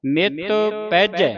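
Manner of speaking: ਪੈਜੈ with open ai in both syllables; double ai vowels. Shown as a demonstration. Teacher points out dulavan on both letters, careful ਪੈਜੈ. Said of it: "ਪੱਪੇ ਦਲਾਵਾਂ".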